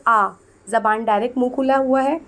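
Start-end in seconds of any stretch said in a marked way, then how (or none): 0.1-0.3 आ with the mouth wide open; open-mouthed vowel. Shown as a demonstration. Teacher showing students an unobstructed sound, आ open-mouthed. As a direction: let आ flow with the tongue never catching. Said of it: "बोलकर देखो".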